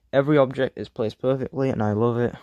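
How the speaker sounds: bored, reading a script; flat, bored script reading; bored monotone. Real, not acted. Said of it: "I sound like a super bored person".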